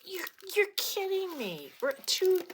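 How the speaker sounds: high, loud disbelief; incredulous. Retold or imitated. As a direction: shriek it up in shock. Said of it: "I'm like".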